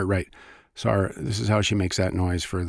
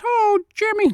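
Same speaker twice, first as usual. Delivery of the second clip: tiny squeaky piccolo voice, far higher; piccolo character voice; 5 dB louder than usual. Retold or imitated. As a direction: squeak like a little flute character. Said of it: "He goes".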